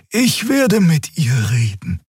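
put-on high, slowish, firm young female voice; resolute. Xia telling Kero she will handle the guard, high and firm. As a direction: take charge calmly but firmly.

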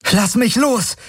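high, sharp demand; angry snap. A narrator's reading. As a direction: snap at him furiously. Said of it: "herrschte sie ihn an".

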